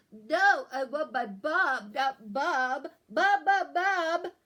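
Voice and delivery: loud, high stuffed-up wail; whiny loud protest. Acted. Sick boy wants mom, not the dog, loud whiny wail. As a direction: wail for mom through a clogged nose. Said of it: "read this book as though I'm sick".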